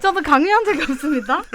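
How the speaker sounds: loud, laughing protest; laughing denial. Real, not acted. Repeats denial, laughing louder.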